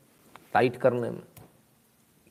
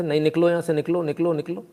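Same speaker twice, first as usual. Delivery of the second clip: mock shouting; 5 semitones higher than usual. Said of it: "बड़ी ज़ोर से भगाया था".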